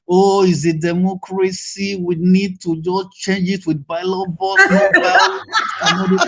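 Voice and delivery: slow, mocking take on the peace crowd, breaking into a laugh at the top; mocking their talk. Mocking the peace talkers for the panel, slow and scornful. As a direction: sneer at the ballot-box talk, slowly. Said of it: "they always dey talk like this".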